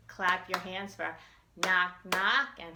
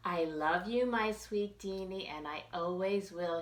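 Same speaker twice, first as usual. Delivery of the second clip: tender mama; 4 dB quieter than usual. Acted. Mama telling her son she loves him, soft. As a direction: say it like a lullaby goodnight. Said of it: "she said".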